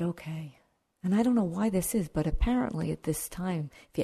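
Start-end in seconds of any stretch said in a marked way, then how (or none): 0.0-0.6 sighing. Acted. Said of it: "the Buddha sighed".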